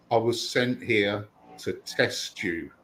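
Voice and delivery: ominous test line. Retold or imitated. Bill menacing the Witnesses at door.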